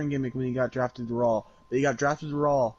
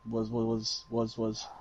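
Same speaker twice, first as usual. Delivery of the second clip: mock stutter; 2 semitones lower, 6 dB quieter than usual. Shown as a demonstration. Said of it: "I'm not gonna do that shit".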